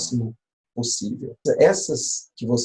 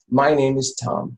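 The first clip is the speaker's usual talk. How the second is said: slow English example. Shown as a demonstration. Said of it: "Por exemplo".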